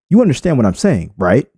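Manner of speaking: sincere, gentle asking tone; genuine question. Shown as a demonstration. Coach demonstrating a sincere question to viewers, gentle. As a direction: ask as if you truly want to know. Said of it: "this guy is asking me a genuine question".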